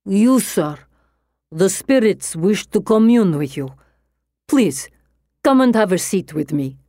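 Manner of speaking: lightly voiced heavy Russian accent; a medium in a Russian accent. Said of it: "she says in a heavy Russian accent".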